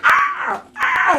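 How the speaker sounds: very high mock screeches; imitated bird cries. Birds swooping at the baby turtle, imitated screeching. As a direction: squawk like attacking birds, playfully. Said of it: "and they're like".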